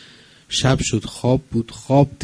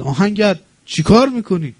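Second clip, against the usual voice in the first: high, loud alarmed cry; woman shouting to the blacksmith in alarm; woman's cry; 10 semitones higher, 8 dB louder than usual. A narrator's reading. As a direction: cry out in sudden alarm, much higher and louder. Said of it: "یک آن زن فریاد زد".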